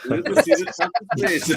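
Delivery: put-on Harrison Ford's joke Scottish accent. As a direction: imitate a hammy fake Scottish accent for a laugh. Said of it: "it's a joke accent".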